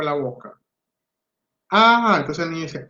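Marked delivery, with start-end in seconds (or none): 1.7-2.2 Ah sung out higher; a raised, clear Ah to prompt; modeling call. Shown as a demonstration. Therapist prompts the child's first sound, raised.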